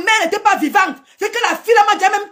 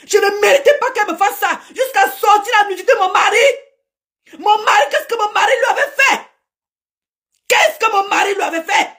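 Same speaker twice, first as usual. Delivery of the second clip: tearful, raised voice of grievance; crying out; 3 semitones higher than usual. Real, not acted. Upset streamer cries out to viewers about betrayal. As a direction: plead through tears, voice rising.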